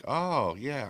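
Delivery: high, swooping realization; pleased recognition. Acted. Host hearing a voice from home, swooping recognition. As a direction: let it swoop up as it clicks.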